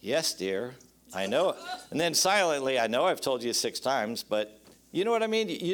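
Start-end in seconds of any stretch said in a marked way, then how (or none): 0.0-1.5 calm yes dear. Shown as a demonstration. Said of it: "you know how I diffuse it really quickly?".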